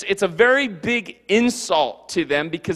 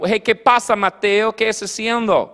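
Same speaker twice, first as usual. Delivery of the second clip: Spanish greeting; 2 semitones higher, 3 dB louder than usual. Pretend. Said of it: "My Spanish is bad".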